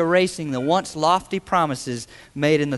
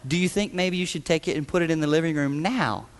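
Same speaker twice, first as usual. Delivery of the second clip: sweetly. Retold or imitated. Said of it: "she said it sweetly".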